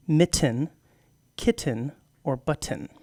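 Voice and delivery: mitten, kitten, button with T's softened to a catch; glottalized T. Shown as a demonstration. Host demonstrating the softened T to co-host, glottal catch. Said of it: "You kind of soften the T's in the middle".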